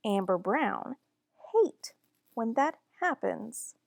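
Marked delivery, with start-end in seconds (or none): 1.5-1.9 hate jumps high and loud; stress on hate. A narrator's reading. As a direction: punch the word hate hard. Narrator stresses hated thing.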